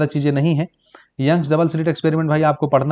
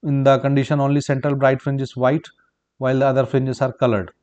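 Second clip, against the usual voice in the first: slow, word-by-word dictation of the answer; measured note-taking pace; 2 semitones lower, much slower than usual. Shown as a demonstration. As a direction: dictate it slowly so students can write. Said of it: "तो फिर white light से replace कर देंगे तो".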